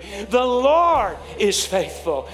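loud, drawn-out rallying declaration; real loud. Shown as a demonstration. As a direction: belt it out slowly for the crowd to join. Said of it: "let's say it again real loud".

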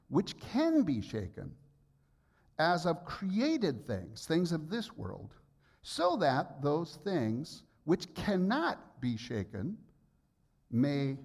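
slow, measured Bible reading; deliberate pulpit reading pace; scripture reading. Acted. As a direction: read each phrase slowly, like holy text. Reads scripture aloud slowly.

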